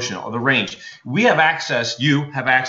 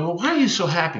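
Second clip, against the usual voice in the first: lightly acted puzzled mom; 6 semitones higher, faster than usual. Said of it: "And the mom's going".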